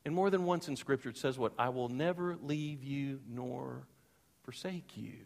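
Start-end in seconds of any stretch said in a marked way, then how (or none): 1.6-5.2 slow, then a whispered forsake you; fading to whisper. Acted. Preacher quoting God's promise to the congregation, whispered. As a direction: let the promise sink to a whisper.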